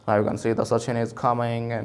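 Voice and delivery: lightly imitating a cricket commentator; a hint of commentary. Teacher imitating TV cricket commentary. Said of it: "ऐसे कर करके वो बोलते हैं".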